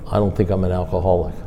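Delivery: imitated whisper. Friend confessing to his sponsor, imitated hushed whisper. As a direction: say it low as if someone might overhear. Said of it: "he whispered, like somebody's gonna hear".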